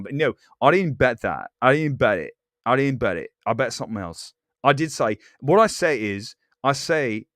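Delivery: rough put-on Brooklyn-ish accent; accent drifting toward Brooklyn. Streamer denying a bet to viewers, wobbly accent veering Brooklyn. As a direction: let a bad Australian accent slide into Brooklyn. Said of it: "now it's veering into some kinda, like, Brooklyn thing".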